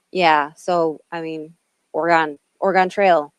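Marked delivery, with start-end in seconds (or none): 1.9-3.3 "Oregon" said as "or-gone"; settling pronunciation. Shown as a demonstration. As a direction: say "Oregon" with a full "gone" ending. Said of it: "that's how you say it".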